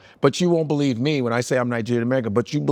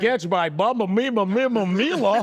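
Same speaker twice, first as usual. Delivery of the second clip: laughing mock call; 6 semitones higher than usual. Real, not acted. Joking sports call, laughing.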